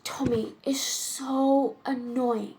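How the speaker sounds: lightly acted Wildean lady, measured with dramatic pauses; exasperated society woman, theatrical. Woman complaining over dinner about her lover's dull proposals, theatrical exasperation. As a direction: complain wittily, lingering on the emphatic words.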